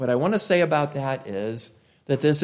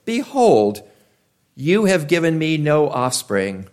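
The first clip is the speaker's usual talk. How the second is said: ironic; 4 dB louder than usual. Retold or imitated. Abram speaking to God with ironic reproach. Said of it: "I hear it with a little bit of irony".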